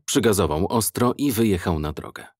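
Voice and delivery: ordinary delivery, nothing marked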